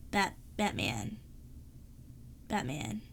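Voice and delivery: a light gravelly-free Batman growl attempt, slow start; hint of Batman, slow and halting; Batman impression. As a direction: try a Batman voice, barely changed. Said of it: "So my Batman impression".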